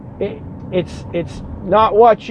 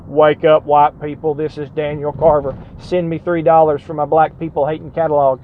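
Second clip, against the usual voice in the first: imitating Daniel Carver; 4 semitones lower than usual. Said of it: "some redneck guy saying".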